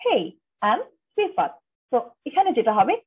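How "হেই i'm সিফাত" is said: casual hey. Shown as a demonstration. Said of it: "informal ওয়েতে নিজের intro দেওয়া".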